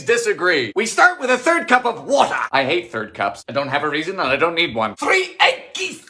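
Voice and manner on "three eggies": high, drawn-out silly voice; high-pitched cutesy call; cutesy squeal. Acted. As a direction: squeal it slowly like baby talk. Silly cutesy call of recipe step.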